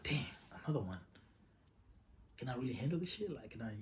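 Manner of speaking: soft, half-whispered worry; worried thought under his breath; anxious inner whisper. Retold or imitated. Alone with the news, a soft anxious whisper.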